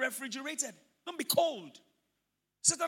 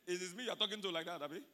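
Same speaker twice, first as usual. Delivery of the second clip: mock divine rebuke; 5 semitones lower, 9 dB quieter than usual. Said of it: "and God said".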